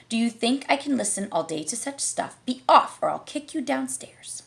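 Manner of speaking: sing-song verse reading; poem recitation. A narrator's reading. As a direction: bounce through the rhymes.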